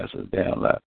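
a breathy whisper under the breath; the kid muttering a retort to himself; whispered aside. Retold or imitated. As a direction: say it so the mother can't hear. Child's muttered retort in story.

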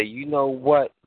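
impressed parent. Retold or imitated. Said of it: "look in the dictionary and say".

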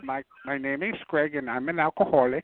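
low mocking drunk voice; mock drunk Greg. Mocking Greg on chat line.

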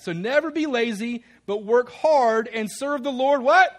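loud, high, building to a big question; rally them, punching it up to a loud 'what'; rousing enthusiasm. Shown as a demonstration. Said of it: "So let's improve on that".

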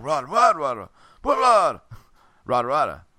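a lightly voiced grumpy cartoon giant; grumpy Schnitzel. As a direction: grumble the nonsense like a cross cartoon giant. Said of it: "But he's like".

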